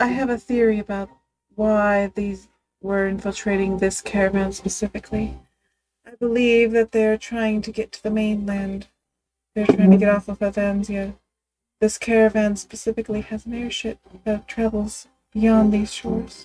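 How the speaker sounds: speaking too quietly, too soft-spoken. Sharing a theory about the caravan with the group, speaking too quietly. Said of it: "You have to speak up".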